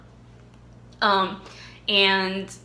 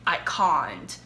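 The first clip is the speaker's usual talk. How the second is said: put-on British accent; 4 semitones lower than usual.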